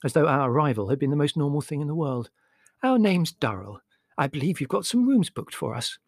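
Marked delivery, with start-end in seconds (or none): 2.8-6.0 sweet, higher-pitched polite voice; smiling sweetly. A narrator's reading. Mother tells the hotel manager about booked rooms, smiling sweetly. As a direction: say it through a sweet smile. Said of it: "she said, smiling sweetly".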